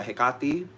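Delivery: Hecate as heh-KAH-tee, middle stressed, lifted at the end; own pronunciation. Shown as a demonstration. Witch confirming how she says it, own pronunciation. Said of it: "sometimes how I pronounce it".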